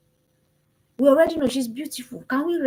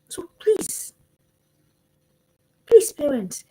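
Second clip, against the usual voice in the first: whispered plea; 4 semitones higher, slower than usual. Real, not acted. Parents hear a whispered plea to listen. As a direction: whisper it like a secret request.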